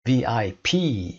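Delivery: «پی» در «وی آی پی» slow with final stress; stress on last letter. Shown as a demonstration. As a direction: say «وی آی پی» slowly, hitting «پی». (تکیه روی «پی» با آهنگ آرام)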